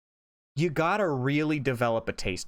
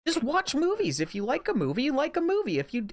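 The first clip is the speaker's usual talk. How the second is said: high, heated rant; fired up and ranting against award shows; getting heated; 11 semitones higher than usual. Real, not acted. A podcaster ranting to his co-host about award shows, heated and high. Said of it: "I'm getting heated".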